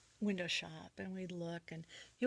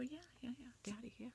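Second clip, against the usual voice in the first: soft, high daughterly yeses; eager agreement; 6 semitones higher, 10 dB quieter than usual. Retold or imitated. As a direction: agree softly and willingly, voice lifted.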